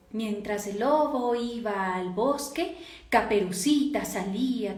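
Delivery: slow, drawn-out fairytale narration; acted storytelling. Shown as a demonstration. Coach showing how to read tales aloud, acted storytelling. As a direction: read it like an acted children's tale. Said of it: "Hazle leer cuentos actuados".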